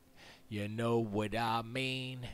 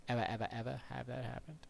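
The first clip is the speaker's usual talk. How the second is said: usual speaking voice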